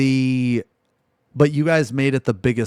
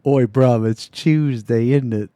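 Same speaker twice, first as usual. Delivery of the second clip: loud half-hearted Cockney imitation; mock Cockney, shouted out; Cockney accent; 6 dB louder than usual. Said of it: "In a Cockney accent".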